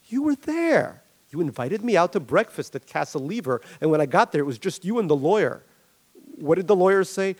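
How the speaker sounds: lightly voiced aggrieved employee; confronting Jeff. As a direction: corner him with the facts.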